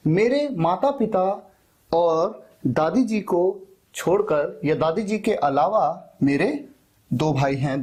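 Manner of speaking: ordinary talk, nothing marked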